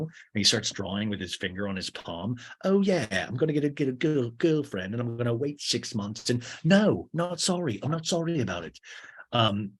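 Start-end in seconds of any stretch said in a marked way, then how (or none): 2.6-8.8 hammed-up defiant DJ; mock planning that jumps high on the refusal. DJ defending falling in love fast, mock defiant.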